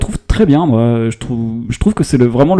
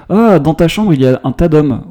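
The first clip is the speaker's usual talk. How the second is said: lightly voiced film dialogue, a touch louder; half-acted movie quote, slightly raised; quoting film line; 3 semitones higher, 4 dB louder than usual. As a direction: read out the film's line as the character might. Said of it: "quelqu'un qui dit à Abel".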